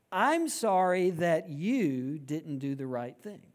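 slow insincere sorry; drawn-out, hollow apology; fake apology. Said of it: "This is what the non-apology apology sounds like".

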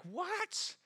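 husband defending himself to his wife, mock indignant; indignant surprise. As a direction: jump up offended. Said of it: "And I'm like".

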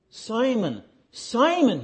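high-pitched, reproving call of a name; rebuke. Acted. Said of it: "That was a rebuke".

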